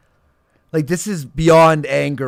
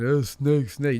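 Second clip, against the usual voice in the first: mocking the chat; 7 dB quieter, slower than usual. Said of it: "You know who's a fucking snake?".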